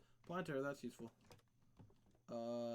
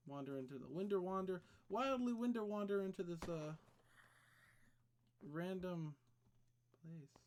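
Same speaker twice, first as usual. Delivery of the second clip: playful sing-song; 5 semitones higher, 6 dB louder than usual. Pretend.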